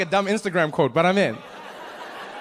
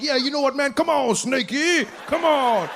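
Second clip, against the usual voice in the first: fake brave tough guy; 10 semitones higher than usual. Comic telling himself off for taunting the snake, high mock bravado. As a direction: sweet-talk the snake like a fool. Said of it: "I'll be like".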